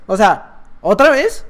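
usual speaking voice

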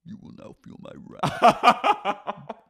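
slow supernatural villainess proclamation; mock-demonic, drawn out, breaking into cackles; Katie Maloney. Katie turned dark power, slow hammed-up menace. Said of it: "And then she goes".

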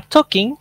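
Talking with a high questioning rise; uptalk. Shown as a demonstration. Teacher demonstrates uptalk on Talking. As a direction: end Talking on a rising tune. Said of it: "Te hace sonar como si estarías pidiendo permiso".

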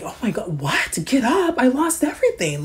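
husband's voice jumping high, whiny and broken; distraught husband. Retold or imitated. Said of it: "And he's looking at her like".

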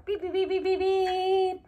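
laughing beeps. Pretend. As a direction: giggly beep beep. Race car play continues.

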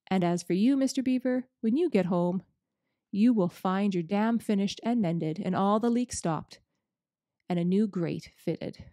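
a hint of a jolly old giver; Father Christmas, lightly voiced. Father Christmas handing out presents, lightly voiced.

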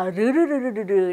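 르르르르르르 as a rapid run of tongue taps; rolled T sound. Shown as a demonstration. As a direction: roll 르르르르르르 continuously like a mock trill. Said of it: "이렇게 굴립니까". (르르르르르르 혀를 마구 굴려서)

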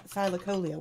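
Thylacoleo said as THIGH-la-COH-lee-oh; habitual pronunciation. Shown as a demonstration. Auctioneer admitting his old habit, Thylacoleo stressed on COH. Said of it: "I've always said Thy".

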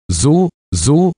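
put-on a sly, knowing old witch. A narrator's reading. Little witch muses over the children's story, high and sly. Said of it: "wiederholte die kleine Hexe".

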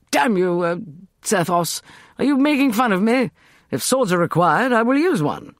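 high, loud furious retort; angry outburst. A narrator's reading. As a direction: hurl it at him in fury. Walter angrily confronts Sethos.

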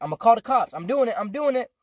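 heated insistence. Retold or imitated. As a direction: mimic a stubborn, heated threat. Retold stepdad insisting on calling.

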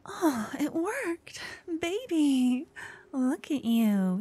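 thrilled the spell worked; delighted relief. Acted. Partner turned back human.

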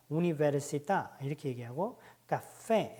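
우니베르시타 and 카페 with the last syllable stressed; final stress demo. Shown as a demonstration. Teacher showing stressed final vowels. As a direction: punch 타 and 페 at the ends. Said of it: "무조건 강하게 발음합니다".

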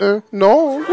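put-on French accent; mock French accent. Customer denying he is French, mock French accent. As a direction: deny it in a fake French accent. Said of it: "I just started doing his accent".

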